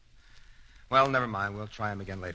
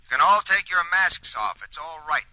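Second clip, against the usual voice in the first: calling out; 7 semitones higher, 9 dB louder than usual. Acted. Calling out to crew outside.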